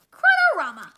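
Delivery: loud furious monster bellow; enraged brute shouting his battle cry; angry Crud roar. Acted. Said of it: "Crud when he angry".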